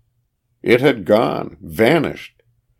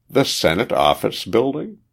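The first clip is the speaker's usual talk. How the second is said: "The Senate Office Building?" higher, rising at the end; echoed question; 5 semitones higher than usual. A narrator's reading. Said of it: "echoed the operative".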